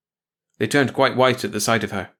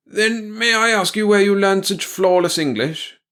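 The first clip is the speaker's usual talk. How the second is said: polite question; 10 semitones higher, 4 dB louder than usual. Acted. Colonel questioning captor.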